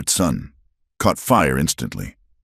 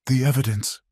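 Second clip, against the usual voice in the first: choked out; 9 semitones higher, 3 dB quieter than usual. Acted. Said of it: "Eliza choked out".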